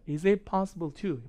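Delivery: slow linking of is it possible to; linked Is it possible to. Shown as a demonstration. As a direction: run Is it possible to together as iz-i-possible. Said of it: "is it이 아니라 is it".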